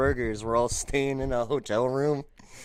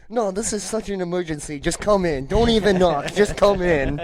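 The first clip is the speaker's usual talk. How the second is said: lightly acted urgent plea, pitched up; desperate prank caller; 4 semitones higher, 4 dB louder than usual. Prank caller urges the front desk to hurry, mock-urgent. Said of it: "he's like".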